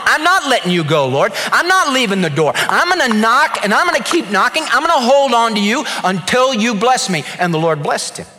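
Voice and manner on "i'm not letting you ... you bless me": cling on and beg, raising the voice; stubborn wrestler won't let go; Jacob pleading hard. Acted.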